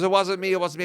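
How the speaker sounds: imitating a crying defendant; a whiny mock sob; mock crying plea. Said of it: "And he was crying".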